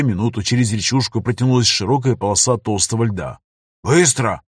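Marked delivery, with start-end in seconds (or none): 3.8-4.4 barked command. Acted. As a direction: order them to hurry. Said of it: "скомандовал маг".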